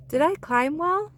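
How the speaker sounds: eager little bear. Acted.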